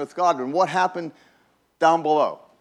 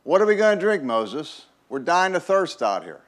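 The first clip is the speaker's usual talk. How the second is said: raised, louder mock demand from the thirsty crowd; demanding complaint; 4 semitones higher, 3 dB louder than usual. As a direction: push it higher and harder, like an angry crowd. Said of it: "they demanded".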